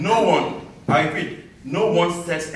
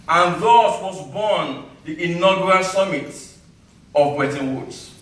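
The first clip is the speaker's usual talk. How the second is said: measured spoken-word delivery with deliberate pauses; poem recital; 4 semitones higher than usual. Acted. Poet to summit crowd recalling the long trek, declaimed poem recital. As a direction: declaim it line by line to an audience.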